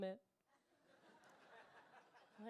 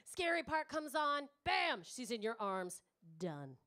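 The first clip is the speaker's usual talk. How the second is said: put-on 1 slick confident boy. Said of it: "Slick, confident".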